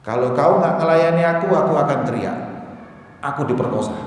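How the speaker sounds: ameaça em voz alta. Retold or imitated. Voicing the woman's threat in story.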